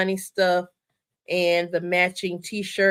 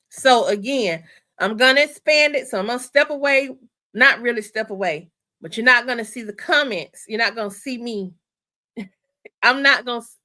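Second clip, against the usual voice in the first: raised, louder, worked-up excitement; real excitement; 4 dB louder than usual. Real, not acted. Host too excited to talk straight, excited. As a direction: get carried away explaining, tripping over words. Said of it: "I'm so excited".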